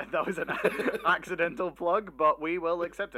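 laughing through the words; giggling while talking. Real, not acted. Laughs at accidental plug.

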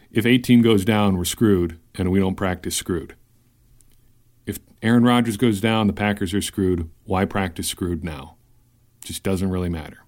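a hint of a seasoned football coach; old football coach voice. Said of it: "the old football coach voice".

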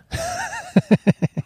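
a very high real squeal of a laugh; high squeal of laughter. Real, not acted. Laughing at a bad hookup memory.

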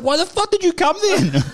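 very high, drawn-out exasperation; incredulous high-pitched protest; retold indignation. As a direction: act out a disbelieving comeback, half laughing. Acted phone quarrel, indignant comeback.

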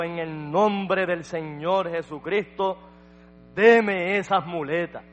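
slow, solemn command building in force; preacher voicing a prophet's authoritative order; retold healing command. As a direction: command it deliberately, pressing each word. Prophet commands man in Christ's name.

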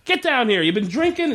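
high, rapid-fire mock interrogation; traffic-stop officer. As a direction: imitate a lawman pulling someone over. Retold traffic stop, acting the officer.

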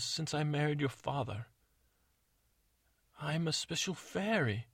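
lightly voiced sincere stepmother; confessing stepmother.

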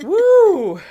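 loud, high whoop; excited cheer. Real, not acted.

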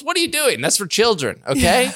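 high exasperated scolding; exasperated rant. Real, not acted. Ranting at park exercisers.

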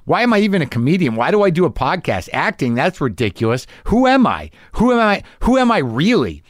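high, rising panic in a spiral; Who am I cried up high, frantic; panicked self-doubt. Retold or imitated. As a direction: spin out in mock despair. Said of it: "No, let's go like".

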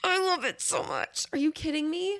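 delighted squeal. Real, not acted.

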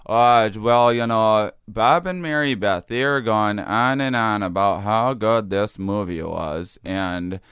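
imitating mom's Fargo accent; lightly voiced upper Midwest accent; Minnesota accent. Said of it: "make her talk about Fargo".

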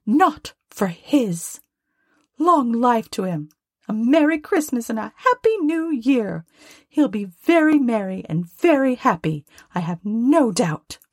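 high-pitched wife giving in grudgingly; high, reluctant toast; grudging Mrs Cratchit. Acted. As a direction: concede it in a high, put-on voice.

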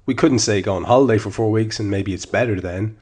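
measured, emphatic article narration; column read aloud. Acted. Podcast host reads his match column to listeners, emphatic narration. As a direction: read the written piece out with firm emphasis.

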